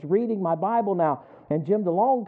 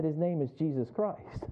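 quiet reverent answer; 2 semitones lower, 6 dB quieter than usual. Retold or imitated. Answering the boss about God in a soft, slow reverent tone. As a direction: let the name land gently, like a confession of faith.

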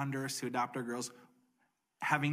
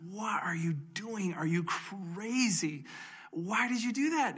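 shocked disbelief; 6 semitones higher, slower than usual. Retold or imitated. Lawyer shocked by their news.

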